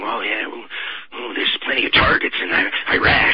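lightly voiced gleeful war hawk; mock someone relishing the targets, half under the breath; a hint of sarcastic giddiness; mock giddy war hawk. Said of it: "sit there and get giddy".

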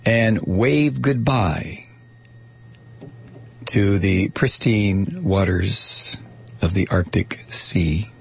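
slow, mock-solemn goodbye; solemn farewell. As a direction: wave goodbye, drawn out. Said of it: "if you're so inclined, point your body".

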